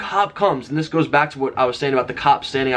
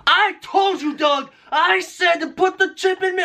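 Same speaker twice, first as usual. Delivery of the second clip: high, mock shrill scolding; hammed-up impression of her nagging; mocking wife; slower than usual. Husband correcting how his wife scolded him, high mock scolding. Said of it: "No, no, it wasn't like that".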